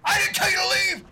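high, furious yell; angry shout. Acted. Player yells at the fleeing guard, furious. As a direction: bellow after him, pitched high.

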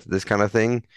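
ordinary talk

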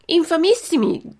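the cat outdoing the fox's outrage; a squeaky, overdone cry of scandal; cat's mock outrage. A narrator's reading. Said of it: "ripeté il gatto".

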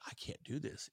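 choked near-whisper; barely voiced, holding back tears; tearful whisper. Telling his coach backstage, whispered and tearful. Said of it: "he could see the tear".

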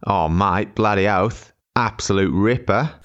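hammed-up mock Aussie; cartoonish Australian slang, badly faked; terrible Australian accent. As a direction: put on a bad Australian accent. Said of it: "truly terrible Australian accent".

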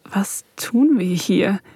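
usual speaking voice

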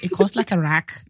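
slow, badly faked accent drifting Scottish; impression of a famous rapper. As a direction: try a star's London accent and miss. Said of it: "It sounds Scottish".

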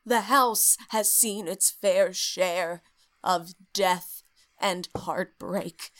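slow, lightly voiced old man; a hint of a grumpy old narrator, drawn out; weird old man voice. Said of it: "I like this weird old man voice you're doing".

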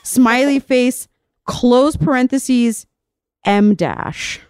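slow, deliberate dictation of punctuation; dictating. Shown as a demonstration. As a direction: spell out each mark like dictation. Reads out diary punctuation marks.

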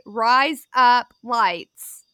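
'Rise up lights' word by word, very slowly; slow, distinct 'Rise... up... lights'; slow demonstration. Shown as a demonstration. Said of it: "that sounds like razor blades".

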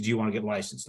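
low-key, unimpressed echo of an offer; mildly reproachful echo. Retold or imitated. Sister repeats brother's question back to him, mildly reproachful. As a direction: quote their question back, understated.

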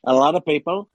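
Trump impression voice; boastful rambling Trump voice; Donald Trump. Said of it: "was just doing the forty-fifth President of the United States, Donald Trump".

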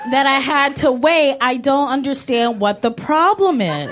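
entitled customer complaint voice; white lady complaining. Retold or imitated. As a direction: complain like a Karen. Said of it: "inner white lady customer service".

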